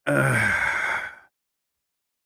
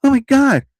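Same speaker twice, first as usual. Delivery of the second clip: mock embarrassed gasp; 10 semitones higher than usual. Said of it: "she quickly turns around".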